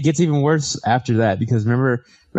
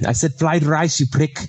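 higher, mock Asian accent from Lethal Weapon; movie quote accent; 4 semitones higher than usual. Friend quoting a Lethal Weapon scene, mock accent. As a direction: quote the fried rice line in a light put-on accent. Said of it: "that part in Lethal Weapon".

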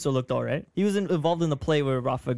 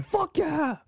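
mock cheer. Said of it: "you're going".

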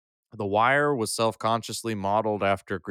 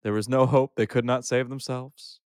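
youth pastor voice. Shown as a demonstration. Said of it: "you ready for my youth pastor voice?".

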